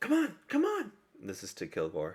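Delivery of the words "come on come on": put-on small halfling girl character voice, higher. Voicing a small halfling girl calling from the mist: small halfling girl voice. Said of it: "a small little halfling girl say".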